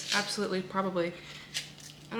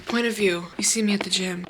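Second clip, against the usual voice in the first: whisper. Real, not acted. Whispered gym question.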